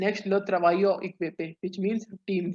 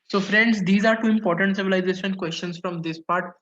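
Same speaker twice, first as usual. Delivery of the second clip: a teacher's louder call to attention; louder restart to the class; 5 dB louder than usual. Real, not acted. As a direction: raise your voice to regain the class.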